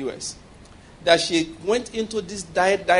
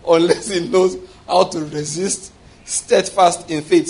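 slow emphasis; slower than usual. Real, not acted. Preacher stressing key phrase.

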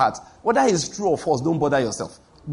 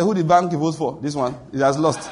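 mock mocking voters. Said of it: "they just say".

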